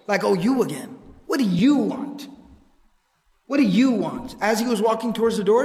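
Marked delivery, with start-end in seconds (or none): 0.2-1.0 disdainful, imitating a grudging greeting; mock weary contempt for an unwelcome caller. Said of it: "you could hear the disdain in his voice". 1.3-2.3 slow, disdainful, leaning on YOU. Retold or imitated. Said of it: "you could hear the disdain in his voice". 3.5-4.3 imitated disdain, pointed at the visitor. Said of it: "he said this with the disdain in his voice".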